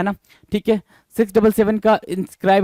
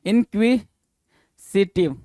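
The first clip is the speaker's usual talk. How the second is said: slow pronunciation; much slower than usual. Shown as a demonstration. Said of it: "inquisitive या सिटिव".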